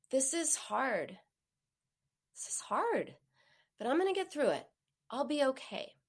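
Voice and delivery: tender comforting voice; soothing tone. Shown as a demonstration. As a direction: wrap the words in a verbal hug. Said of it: "So a soothing tone".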